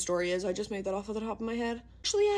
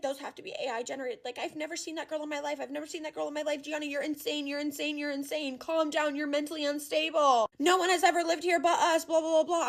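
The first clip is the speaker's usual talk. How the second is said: put-on dismissive boyfriend; 5 semitones higher than usual. The boyfriend dismissing her photos, a light mock of his brush-off. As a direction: brush her off as if she's crazy. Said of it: "And he's like".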